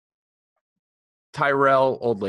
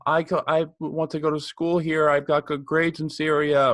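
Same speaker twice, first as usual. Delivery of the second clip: higher-pitched pleading kid, retold; imitating little refugee girl; 6 semitones higher than usual. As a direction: mimic a young girl speaking up earnestly. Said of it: "she's like ... hysterically crying".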